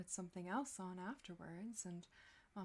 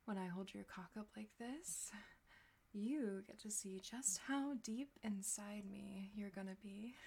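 hushed, intimate, teasing whisper; seductive whisper. Acted. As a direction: breathe it close to the mic.

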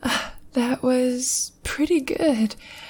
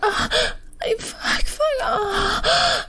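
orgasmic moaning; 9 semitones higher, slower than usual. Acted. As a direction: let the moans peak, then come down breathless. Climax moans then breathless afterglow.

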